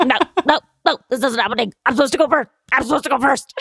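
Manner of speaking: mother refusing her daughter's death, desperate; Sally Field impression. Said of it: "That's my impression".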